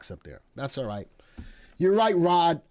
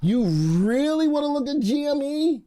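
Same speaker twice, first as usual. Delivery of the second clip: high, loud disbelief at the question; incredulous; 12 semitones higher, 6 dB louder than usual. Real, not acted. Host reading a viewer's request, loud incredulous disbelief. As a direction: react as if the pick is absurd.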